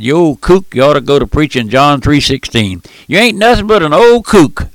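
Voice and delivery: lightly hammed-up telling-off; mock scolding. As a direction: imitate an indignant critic, climbing high on the final insult. Reading out an insulting letter.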